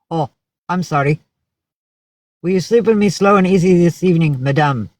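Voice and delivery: light mock French accent, quick and lifted; hint of a French accent on a quick come-on; French guy's English. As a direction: imitate a Frenchman propositioning in English. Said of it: "Some French guy would be like".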